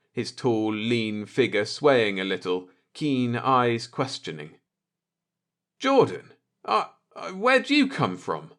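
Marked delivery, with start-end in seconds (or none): 5.8-8.5 high, stammering panic; panicked stammer. Acted. Akers caught off guard by Jordan, high panicked stammer. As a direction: fumble the words in fear. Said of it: "fought the panic in his voice".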